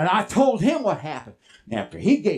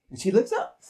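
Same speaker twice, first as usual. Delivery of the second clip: rising looking up; faster than usual. Acted. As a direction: lift sharply on up. Horse looking up, acted by pitch.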